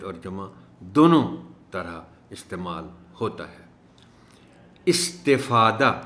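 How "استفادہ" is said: استفادہ slow, i under ت clear; careful pronunciation. Shown as a demonstration. Teacher models استفادہ for students. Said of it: "تے کے نیچے زیر کا خاص خیال".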